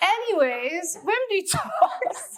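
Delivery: laughing while speaking. Moving on after joking about catching a cold from a nephew, laughing.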